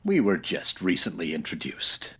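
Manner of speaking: dry whispered aside. Acted. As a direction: slip it out under your breath. Aside while the gang looks on.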